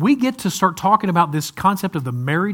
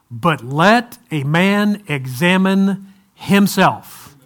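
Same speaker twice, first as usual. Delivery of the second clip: solemn scripture reading; much slower than usual. Shown as a demonstration.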